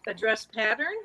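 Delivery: a hint of a puzzled, stalling echo, rising at the end; mildly imitated wary repeat. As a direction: lightly echo his words as if buying time to think. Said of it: "You can almost hear her little wheels going".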